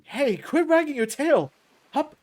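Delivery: loud, high, slow holler; playful scolding shout. Acted. Champ hoisting a wriggling fighter, playful shout. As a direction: shout a teasing telling-off.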